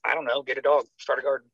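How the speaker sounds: offhand, tossed-off brush-off; flippant. Retold or imitated. Therapist shrugging off a desperate soldier, flippant. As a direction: throw it away like it hardly matters. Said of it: "just flippantly says".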